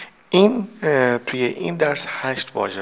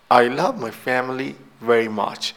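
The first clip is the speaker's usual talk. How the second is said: slow model reading; slower than usual. Shown as a demonstration. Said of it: "teacher reads example sentence".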